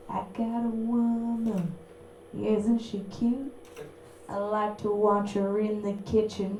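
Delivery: slow, crooning country singer, lightly done; country singer parody. Retold or imitated. Mocking a country singer crooning about his woman, slow lightly sung. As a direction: croon it like a smug country star.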